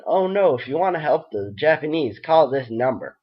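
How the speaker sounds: terrible put-on Happy voice; grating, badly done cartoon voice. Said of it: "Sorry about the terrible voice".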